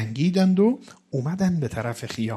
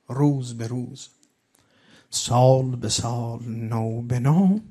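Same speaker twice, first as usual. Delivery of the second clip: slow emphasis; 2 semitones lower, slower than usual. Real, not acted. Preacher slows for emphasis.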